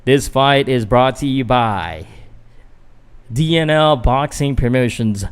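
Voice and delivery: practising introducing the blue corner fighter; mock ring announcer. Vlogger practising the fighter introduction as a light ring announcer. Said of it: "trying to practice".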